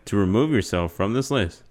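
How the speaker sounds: slow, even recorded-menu voice; automated phone menu voice. Acted. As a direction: read it like a phone system. Plays automated phone service.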